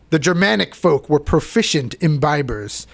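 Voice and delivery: a vague, half-hearted fake European accent on the quote; lightly faked European accent reading an old historian. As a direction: read the quote in a bad put-on European accent that isn't really German. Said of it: "Pardon my fake accent".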